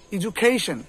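এডুকেশন said "i-ju-KAY-shun"; English-style "ijukeishon" for এডুকেশন; correct pronunciation. Shown as a demonstration. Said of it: "উচ্চারণটা কি হবে".

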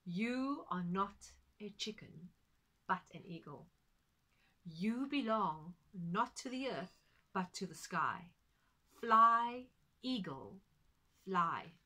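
slow solemn words then a loud cry of Fly; slow, loud urging. Acted. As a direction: plead with the eagle, then shout. Friend on roof urges eagle.

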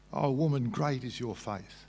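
reverent. Acted. Quoting Jesus's blessing.

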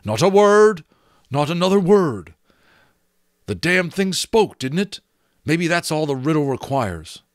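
loud, high, fierce warning; fierce command. A narrator's reading. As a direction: cut her off hard and fast. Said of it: "in a swift, fierce voice".

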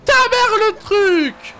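high furious yell at the game; raging gamer. Real, not acted. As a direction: scream at the screen in rage. Player yells at failed jump.

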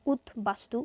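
উদ্বাস্তু said "ut-bastu", falling; b kept. Shown as a demonstration. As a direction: sound the ব clearly in উদ্বাস্তু. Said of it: "ব ফলা উচ্চারণ এখানে করব".

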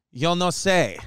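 chuckling through the Spanish quote; laughing. Retold or imitated. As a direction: laugh it out lightly.

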